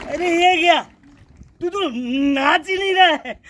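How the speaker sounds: playful astonishment; mock surprise. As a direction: act shocked that he won't dance. Plant isn't dancing.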